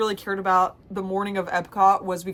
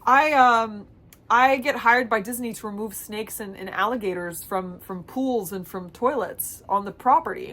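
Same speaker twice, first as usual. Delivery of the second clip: lightly voiced snake lady. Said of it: "She goes".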